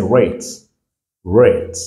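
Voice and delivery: rate with a clear "ay"; English long A. Shown as a demonstration. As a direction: model rate twice, pausing between. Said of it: "let us say".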